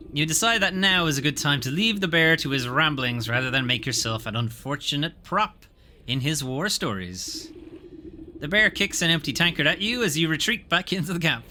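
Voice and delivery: story narration. Acted. Reading game narration.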